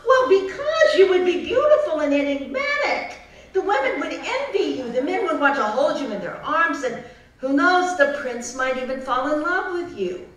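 excited groundhog. Acted. Groundhog pitches the ball.

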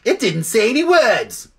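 high, chattering bird voice; squawky jackdaw. A narrator's reading. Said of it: "said the jackdaw".

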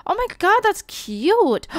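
high delighted gush; delighted squeal. Real, not acted. Reacts to baby milestone.

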